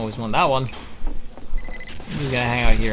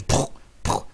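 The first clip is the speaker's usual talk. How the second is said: whispered poof sounds; 5 dB quieter than usual. Retold or imitated. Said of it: "and then there's".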